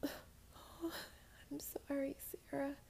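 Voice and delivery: slow, hushed, sorrowful whisper; whispered apology. Acted. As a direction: breathe the apology out slowly.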